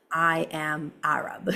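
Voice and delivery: slow whisper, like a secret; slow intimate whisper; whispered confession. Real, not acted. Confesses her identity.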